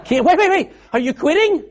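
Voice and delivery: high, loud through laughter; laughing and loud. Real, not acted. Preacher laughing as the volunteer is rebuffed, high and loud. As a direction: crack up while calling out.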